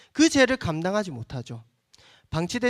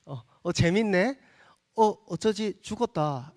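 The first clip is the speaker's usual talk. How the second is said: 가벼운 안타까움; 2 semitones higher than usual. Retold or imitated. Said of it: "이렇게 안타까워하기도".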